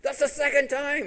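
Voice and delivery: high-pitched exasperation; beside himself. Retold or imitated. King at second blessing, beside himself. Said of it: "Balak's just beside himself".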